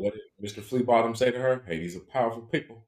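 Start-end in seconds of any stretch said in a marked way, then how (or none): 1.7-2.8 put-on Essex accent. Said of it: "that's my Essex accent".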